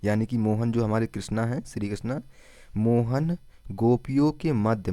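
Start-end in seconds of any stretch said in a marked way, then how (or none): 2.8-4.9 slow mnemonic. Shown as a demonstration. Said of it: "Mohan Yadav को कैसे याद रखेंगे".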